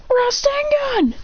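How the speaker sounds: "Rasengan!" called high and drawn out slow; attack call. Retold or imitated. Boruto shouting his attack at the opponent, drawn-out call. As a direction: stretch the attack name out like an anime hero.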